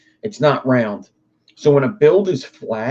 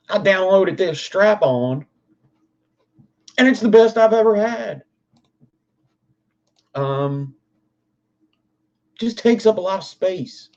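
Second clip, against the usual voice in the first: higher, twangy redneck accent, lightly put on; 8 semitones higher than usual. Streamer fakes a redneck testimonial to chat, mock redneck accent. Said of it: "my default accent is a redneck".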